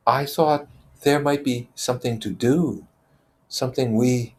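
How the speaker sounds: faltering under the crowd's pressure; Simon's voice. Acted. Simon trying to speak to a jeering circle.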